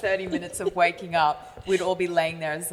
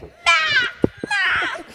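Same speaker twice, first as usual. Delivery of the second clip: put-on very high laughing kid calls; kids calling out; 4 dB louder than usual. Imitating kids who watch the show calling her name, very high laughing calls. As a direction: chirp it like excited children.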